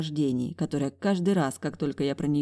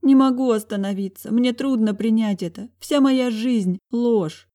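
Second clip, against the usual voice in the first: tearful; 6 semitones higher, 6 dB louder than usual. A narrator's reading. She sobs over her parents.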